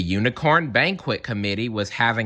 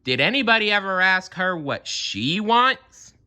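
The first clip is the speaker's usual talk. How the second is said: lightly voiced Zebra; 11 semitones higher than usual.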